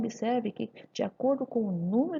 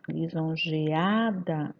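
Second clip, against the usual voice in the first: "lisonjeada" drawn out slowly, leaning on the A of "-ada"; stressed syllable shown; 4 semitones lower, much slower than usual. Shown as a demonstration. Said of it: "a sílaba mais forte". ("lisonjeada" devagar, destacando o A tônico)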